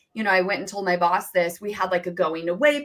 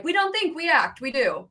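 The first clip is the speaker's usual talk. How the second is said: Jenna-style motto; 6 semitones higher than usual. Retold or imitated. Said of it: "a little bit more Jenna style".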